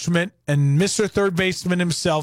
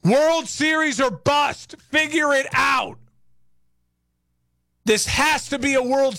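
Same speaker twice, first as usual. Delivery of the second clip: higher, insistent rallying demand; demanding fan rant; 5 semitones higher than usual. Retold or imitated. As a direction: fire up the fans, demand a title. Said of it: "you know what I'd be saying".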